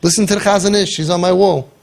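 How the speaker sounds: high, laughing mock voice of God; voicing Hashem. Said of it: "And Hashem is saying".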